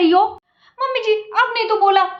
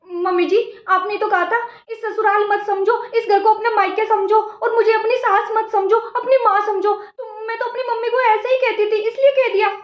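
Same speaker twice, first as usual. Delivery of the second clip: higher, mock-innocent protesting; innocent bride voice; 5 semitones higher than usual. Daughter-in-law innocently throwing her words back at the mother-in-law. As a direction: play dumb and argue back sweetly.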